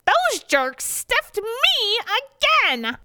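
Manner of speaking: high, slow, outraged exclaim. Acted. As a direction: burst in crying out the news.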